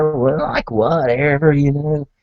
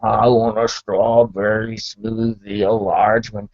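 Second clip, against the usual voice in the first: slow, drawn-out craving; lightly acted slow, hungry order; drooling customer; 3 semitones lower, slower than usual. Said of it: "And you're drooling".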